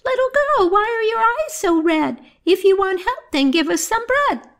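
very high squeaking mouse voices; squeaky mice. Acted. Mice asking the weeping girl for bread, squeaking. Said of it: "squeaking and saying".

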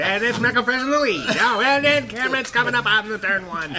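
lightly done race announcer through laughter; mock race call. Bathroom race between two friends, a light race call. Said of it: "racing bathroom".

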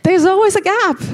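playful posh English accent imitating Jade; posh British accent. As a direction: put on a posh British accent, laughing at yourself. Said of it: "a little bit more posh accent".

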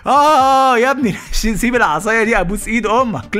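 high, strained pleading with a laugh; the cat begging the boy to drop the stick. Retold or imitated. (قطة بتتوسل بصوت عالي وضحكة)

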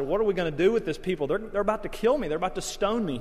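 high, rushed exasperated plea; pleading Moses. Retold or imitated. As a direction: voice a harried Moses crying out to God. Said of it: "Moses turns to God and said".

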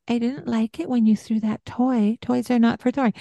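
high, thin pleading voice; don't ask, just plead it up high; wrong way. Shown as a demonstration. Mother to child, the weak pleading voice. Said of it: "I'm not saying".

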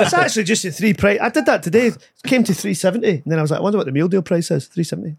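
lightly put-on rambling uncle; a hint of a blethering uncle on a tangent; Frank. Shown as a demonstration. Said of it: "I just let Frank talk".

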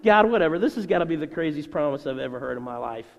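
cynical scoffing. Retold or imitated. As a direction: act out a dismissive scoff at God. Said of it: "They're just laughing and being cynical".

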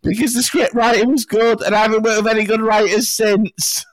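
high, whiny has-been actor voice; mock a fading sitcom star begging for relevance; washed-up actor. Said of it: "clinging on to that first role".

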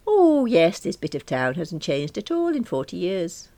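high, loud fond exclaim; gushing mum. Acted. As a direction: gush over the old park. Mum reminiscing loudly.

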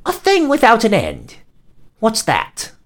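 high loud monster head voice; many-headed hydra. Acted. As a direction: squeal the riddle like a monster head. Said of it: "the first head asked".

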